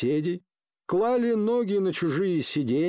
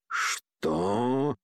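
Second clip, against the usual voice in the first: ordinary delivery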